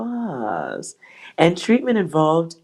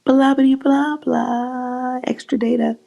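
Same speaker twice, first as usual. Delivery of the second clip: mock dismissive; 9 semitones higher, slower than usual. Real, not acted. Mocking the dry extra data.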